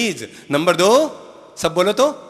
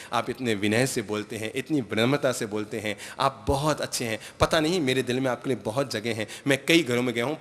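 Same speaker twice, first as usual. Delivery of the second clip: sweet flattery; 4 semitones lower, 4 dB quieter than usual. Retold or imitated. महाराज मीठा बोलकर मनाते हैं.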